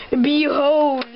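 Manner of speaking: loud proud unveiling; grand villain announcement. Acted. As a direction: proclaim it like a villain. Villain unveils his device.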